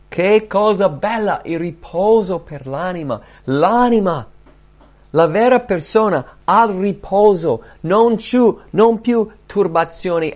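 fervent preaching, punched phrase by phrase; preacher's exulting. Real, not acted. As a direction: marvel out loud, each phrase pitched high. Preacher exults over rest for soul.

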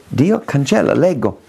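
usual speaking voice

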